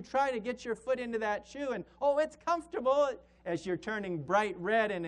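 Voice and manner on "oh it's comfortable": mock denial. Forcing foot into small shoe.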